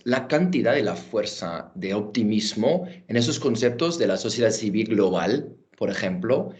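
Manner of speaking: Spanish with a clear American accent; English speaker speaking careful Spanish. Real, not acted. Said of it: "pidiendo perdón por mi español".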